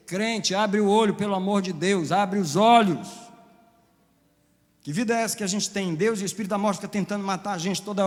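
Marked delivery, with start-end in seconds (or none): 0.1-3.1 louder, slow pleading call to believers; urgent plea. Real, not acted. Pastor pleading with believers to open their eyes, loud. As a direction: shake them awake, drawn out.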